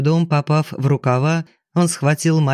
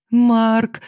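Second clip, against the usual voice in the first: bitter sob; 7 semitones higher than usual. A narrator's reading. Widow crying out her dead husband's name through bitter sobs. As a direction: break down on the name. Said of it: "горько зарыдала Алиса".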